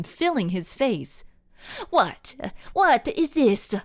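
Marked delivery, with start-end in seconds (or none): 1.9-3.7 loud, high, confused yell; screamed. A narrator's reading. Rossi surrounded by Templars, loud confused scream. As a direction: shout in confusion. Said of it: "he screamed".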